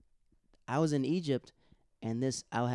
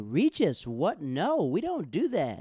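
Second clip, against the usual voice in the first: Kelly scolding; 6 semitones higher, 5 dB louder, slower than usual. Retold or imitated. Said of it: "And Kelly was like".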